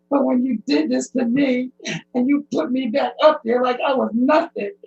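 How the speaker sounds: speaking through tears; real hurt in the voice; crying while accusing; tearful. Real, not acted. Distressed testimony, crying.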